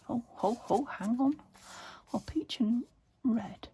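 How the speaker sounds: talking through hiccups. Real, not acted. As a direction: speak while fighting hiccups. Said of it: "I'm hiccuping".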